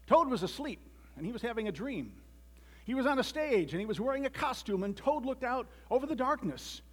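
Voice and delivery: animated story narrator; storybook narration. A narrator's reading. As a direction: read it like a tale for children. Reads children's story aloud.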